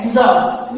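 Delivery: जॉब with a slight d before the j; firm stop-then-j onset on जॉब; correct English pronunciation. Shown as a demonstration. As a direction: demonstrate जॉब as "djob". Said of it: "जो correct pronunciation है वो क्या है".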